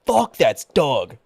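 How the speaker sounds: slow drawn-out Fuck that's Doug; mock drawled catchphrase; friend's catchphrase. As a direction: drag it out like the buddy. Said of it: "he'd always be like".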